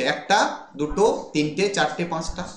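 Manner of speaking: একটা, দুটো with rising tune, then তিনটে, চারটে, পাঁচটা falling and fading; counting the feet. Shown as a demonstration. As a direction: count the beats one by one. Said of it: "কতগুলো foot রয়েছে?".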